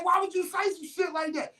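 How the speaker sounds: high shouted disbelief; mock shocked. Him reacting to her words, high shocked shout.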